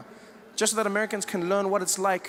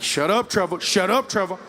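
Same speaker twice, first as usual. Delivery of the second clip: scared friend; 3 dB louder than usual. Retold or imitated. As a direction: beg him to stop talking before it's too late. Scared friend hissing at Trevor.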